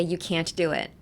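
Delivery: CAN'T with an audible t before DO IT; pronounced T. Shown as a demonstration. Teacher offering the alternative, can't with its T sounded. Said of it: "just pronounce the T".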